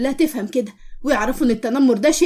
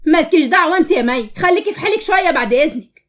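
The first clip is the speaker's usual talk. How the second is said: irritated, higher-pitched comeback; hostile retort; 4 semitones higher than usual. Acted. Nour tells May to mind her own business, irritated. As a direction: tell her to stay out of it.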